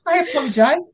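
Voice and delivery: high, tearful, sobbing apology; crying while talking. Real, not acted. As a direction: apologize through real tears. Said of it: "Having me sob all over you".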